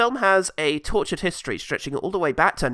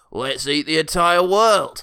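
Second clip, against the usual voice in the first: put-on Australian accent; 5 dB louder, slower than usual. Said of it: "it's Australian".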